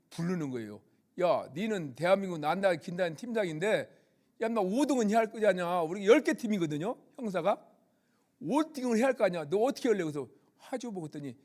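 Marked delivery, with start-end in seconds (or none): 1.2-5.8 mock gruff senior leaning on a junior; senior's scolding. Senior officer scolding the team leader. 8.4-10.0 higher, fast, pushy imitation of a senior; retold nagging from a superior; senior's pressing demand. Senior pressing the team leader.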